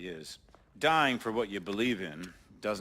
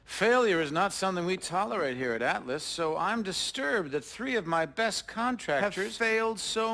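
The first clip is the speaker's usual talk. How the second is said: cold menace; 10 semitones higher than usual. Acted. Villain threatens captured hero.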